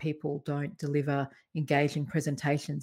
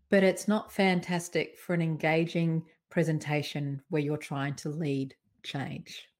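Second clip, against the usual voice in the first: normal talking voice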